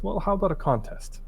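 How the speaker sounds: put-on high, eager little boy's voice; a tiny lad proposing a bold bet; small boy voice. The boy challenges the troll in a high boy's voice. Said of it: "the boy says".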